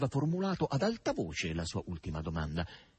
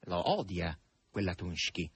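smiling; 5 semitones lower than usual. Acted. Red-haired man teasing Margherita, with a smile. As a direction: say it with a knowing smile. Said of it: "riattaccò sorridendo il rosso".

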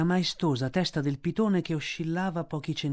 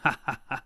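low snake snicker; sneering chuckle; 3 semitones lower than usual. A narrator's reading. Kaa sniggers at the cobras, sneering chuckle. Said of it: "fece Kaa sogghignando".

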